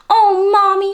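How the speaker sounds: put-on bright child calling mommy; little girl voice. A narrator's reading. Little girl pleading to her mother, high and eager. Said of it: "she said".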